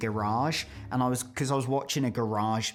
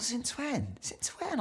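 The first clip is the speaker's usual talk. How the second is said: mock shock; 12 semitones higher, 7 dB quieter, slower than usual. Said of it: "And I thought".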